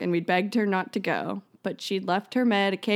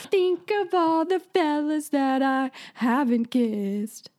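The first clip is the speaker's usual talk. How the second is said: saucy voice; 4 semitones higher than usual. Pretend. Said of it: "use my saucy voice".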